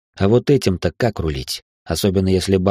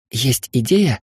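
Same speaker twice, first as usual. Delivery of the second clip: higher, eagerly curious question; perking up; 5 semitones higher, slower than usual. A narrator's reading. Hilda perks up at talk of a plan, lively. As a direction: perk up at the hope of a plan. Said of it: "оживилась Хильда".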